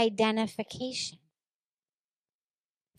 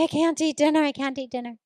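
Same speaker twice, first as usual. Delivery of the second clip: distraught retelling; 6 semitones higher, 3 dB louder, faster than usual. Retold or imitated. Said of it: "and I'm sobbing".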